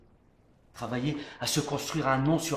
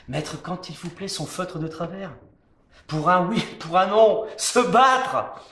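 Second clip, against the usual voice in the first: higher, louder rousing cry; defiant shout; 6 semitones higher, 10 dB louder than usual. Acted. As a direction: belt it out in defiance. Climax of the defiant tirade.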